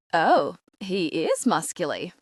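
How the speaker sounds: put-on slow, admiring Australian accent; drawn out thick Australian accent. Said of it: "thick Australian accent".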